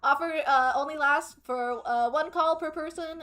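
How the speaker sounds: cheery foot cream commercial; cheerful ad with eerie menace. Pretend. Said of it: "Best advertiser voice?".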